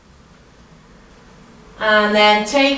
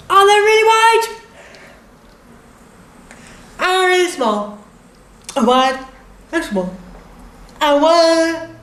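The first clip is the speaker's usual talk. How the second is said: higher, energetic warm-up leader; drama teacher; 6 semitones higher, 3 dB louder than usual. Acted. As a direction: lead the class brightly, face exercise. Leads face warm-up.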